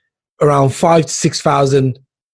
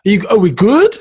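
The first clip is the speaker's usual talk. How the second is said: mock pleading; 12 semitones higher than usual. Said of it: "And I'm like".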